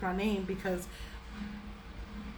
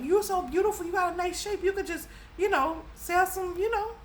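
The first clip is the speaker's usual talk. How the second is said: mimicking grandma; 8 semitones higher than usual. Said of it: "My married in grandma was like".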